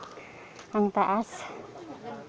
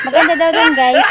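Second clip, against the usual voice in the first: laughing; 6 semitones higher, 12 dB louder than usual. Real, not acted. Laughing while reporting news.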